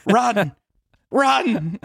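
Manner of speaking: hammed-up panic yell; mock urgent yell. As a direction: yell it like a warning. Urging escape in joke.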